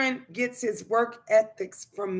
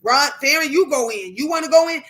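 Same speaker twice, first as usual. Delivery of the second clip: calling to sons; 4 semitones higher, 6 dB louder, faster than usual. Retold or imitated.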